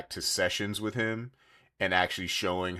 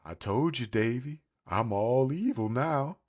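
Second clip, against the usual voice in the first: cartoon evil dog; 4 semitones higher than usual. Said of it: "a dog just came out and was like".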